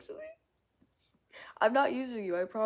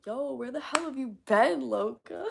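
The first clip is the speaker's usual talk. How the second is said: raised, louder movie-line delivery; Twilight quote; 6 semitones higher, 4 dB louder than usual. Retold or imitated. Streamer quoting Twilight to a viewer, mock movie line. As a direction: quote Twilight with playful force. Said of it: "Twilight reference, by the way".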